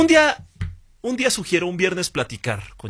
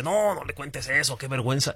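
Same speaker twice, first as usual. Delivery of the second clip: mock embarrassed; 6 dB quieter than usual. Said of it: "empieza a bromear ahí y dice".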